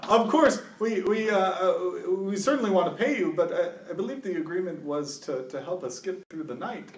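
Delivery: put-on high, hesitant old-man voice; nervous old official placating someone; timid old governor. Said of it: "He's an old man".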